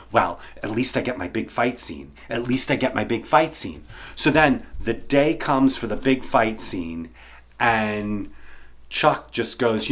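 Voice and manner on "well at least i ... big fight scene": consoling myself. Retold or imitated. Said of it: "I kept saying".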